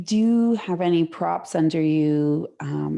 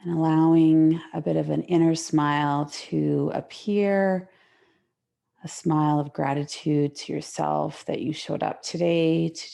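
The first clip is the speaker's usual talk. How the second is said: gentle, unhurried yoga guidance with long pauses; guided relaxation. Real, not acted. Yoga teacher settling students into the mat, guided relaxation.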